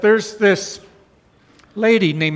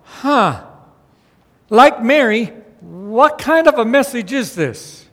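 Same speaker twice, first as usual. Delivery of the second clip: higher, bewildered questioning, half acted; a hint of startled confusion; imitating Mary's confusion; 4 semitones higher than usual. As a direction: voice Mary's alarmed wondering, lightly. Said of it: "might be going".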